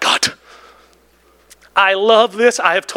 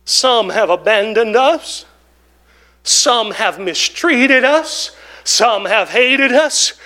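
slow lament; slower than usual. Retold or imitated. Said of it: "We might be able to say".

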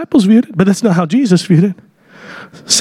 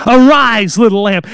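tender call. Acted. Preacher repeating Jesus' call to the girl, tender. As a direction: repeat "Arise, little lamb" a little stronger. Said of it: "a term of endearment used of a father talking to the daughter".

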